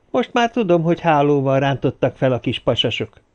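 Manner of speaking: chatty man spinning his yarn; Sörhoff recounting. A narrator's reading. Voices Sörhoff telling his story.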